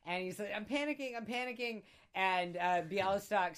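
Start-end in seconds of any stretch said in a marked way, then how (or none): 0.6-1.8 high-pitched imitation of panicking; mock panic. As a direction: act out a man freaking out, without extra volume. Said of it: "he's sort of hyperventilating and panicking".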